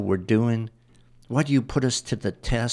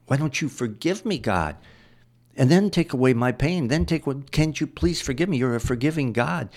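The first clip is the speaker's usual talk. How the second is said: pleading Job; 4 semitones higher than usual. Acted. Job begging God to forgive him and end his pain, pleading. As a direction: beg God to take the pain away.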